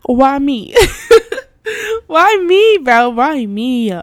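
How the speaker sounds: half laughing, half crying. Real, not acted.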